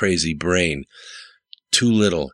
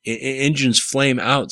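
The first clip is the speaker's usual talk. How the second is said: higher, stumbling rush; spouting excitedly; 8 semitones higher than usual. A narrator's reading. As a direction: blurt it out eagerly. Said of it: "spouted Kyle".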